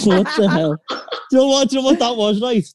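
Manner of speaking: muffled, like through a wall. Real, not acted. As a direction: sound dulled and boxed in. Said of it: "you sound like you've got a bit muffled".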